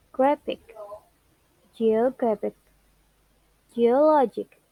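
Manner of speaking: GRAPH in graphic and geographic, LOG in geologic; stress on penultimate syllable. Shown as a demonstration. Teacher giving examples of a rule, penultimate syllables stressed. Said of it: "Stress on penultimate syllable".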